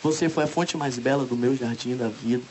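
measured romantic poem recitation; poetry recital. Acted. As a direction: recite a love poem line by line with pauses. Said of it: "eu vou recitando a poesia".

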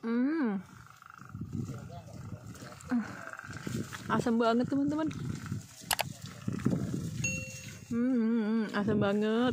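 puckered, wincing at the sourness; eating sour grapes. Real, not acted. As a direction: talk through a sour bite. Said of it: "melihat muka aku yang lagi makan asem".

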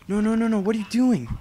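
high, loud panicked no no no; alarmed yelling. Real, not acted. Gamer yelling at her character in sudden alarm. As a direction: yell at the screen in alarm.

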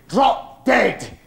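high, loud, punched-out refusal; acted angry shout; furious retort. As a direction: hurl it back through the door. Mother's furious reply through door.

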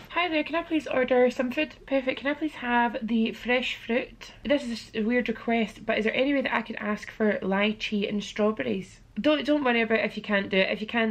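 sweetly ordering food over the phone; polite phone voice. Real, not acted. Ordering room service by phone.

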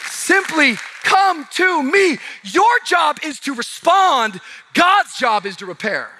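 high, loud preaching call; calling the crowd to come, preached hard; preaching at full force. Acted. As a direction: lift the room with the call.

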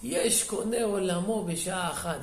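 slow, drawn-out mock lament; tearful retelling. Weeping rabbi marvels at the executioner, slow mild lament. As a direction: stretch it out like a mild retold weeping. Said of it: "ובוכה".

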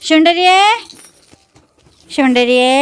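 high, loud fond call; fond call to dog. Real, not acted. Owner calling her dog fondly, high and loud. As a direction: call the dog's pet name out sweetly.

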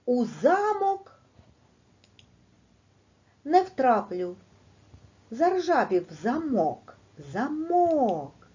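замок drawn out high with stress on the second syllable, заМОК; stressed reading. Shown as a demonstration. Teacher shows the stress in the twister to pupils, slow and high. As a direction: stretch замок slowly and high, leaning on the final syllable. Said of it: "поставте наголос".

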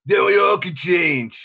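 rally the crowd, slowing down; Rocky speech impression. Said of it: "Rocky's speech at the end of Rocky four".

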